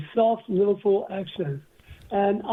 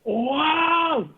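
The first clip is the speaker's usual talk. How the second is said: amazed wow; 7 semitones higher than usual. Retold or imitated. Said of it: "He just went".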